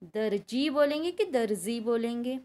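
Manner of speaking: दर्जी with j then with z; teacher's j-or-z question; j versus z. Shown as a demonstration. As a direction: contrast j and z in दर्जी. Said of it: "लगना चाहिए कि नहीं".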